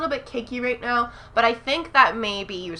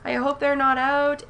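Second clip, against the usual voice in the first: higher, louder retold fretting; retold frantic worry; 5 semitones higher, 4 dB louder than usual. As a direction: replay the worried rush at the store. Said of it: "I was like".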